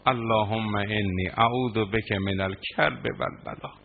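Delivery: measured, slow prayer chant; slow Arabic recitation. Acted. Preacher reciting Imam's prayer to mourners, slow chant. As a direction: draw out each Arabic word slowly.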